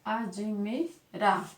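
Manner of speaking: very slow "Admirar", split into syllables; slow, syllabified "Admirar". Shown as a demonstration. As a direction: break "Admirar" into its syllables for the class. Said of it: "qual a forma de separar essa palavra admirar".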